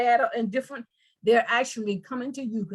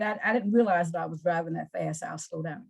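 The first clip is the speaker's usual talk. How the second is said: gentle apology; 8 semitones lower, 4 dB quieter than usual. Pretend. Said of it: "So you say something like".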